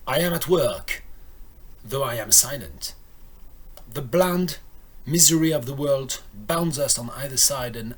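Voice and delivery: measured poem reading with long pauses; poetry reading. Acted. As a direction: read it line by line, letting each phrase settle. Reads the poem aloud. (lecture posée d'un poème)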